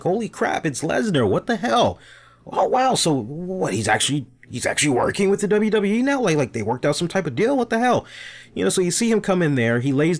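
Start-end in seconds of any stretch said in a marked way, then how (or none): 0.0-8.0 high, fast mock disbelief; excited fans. Fans on social media seeing Lesnar appear, excited disbelief. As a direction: squeal it out like a stunned fan. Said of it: "they're like".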